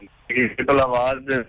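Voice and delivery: distorted phone line; garbled, slowed call audio; corrupted glitchy audio. Real, not acted. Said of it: "बहुत distortion है".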